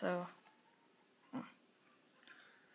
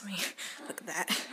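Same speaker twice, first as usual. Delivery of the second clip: whispering; faster than usual. Real, not acted. Whispering about the weather.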